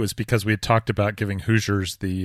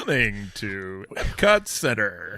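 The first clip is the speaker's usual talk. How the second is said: slow, grand attraction announcer; slower than usual. Pretend. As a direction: announce it like a theme park ride. Mock Epcot attraction announcement.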